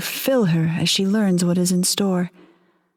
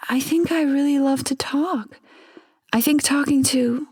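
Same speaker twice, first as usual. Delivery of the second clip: higher, breathy whisper of a lonely wife; whispered wife's voice; 7 semitones higher than usual. Acted. Wife confiding in the ghost, raised whisper. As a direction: hush it like a confession.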